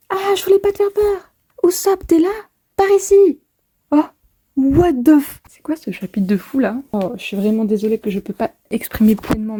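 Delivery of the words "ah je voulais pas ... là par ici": higher, frantic calls for help; voiced heroine, alarmed; Nami panicking. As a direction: play Nami lost in a strange castle. Reads character lines.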